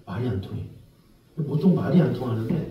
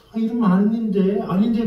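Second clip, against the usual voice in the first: hesitant clerk; 7 semitones higher than usual. Acted. Reluctant clerk voiced.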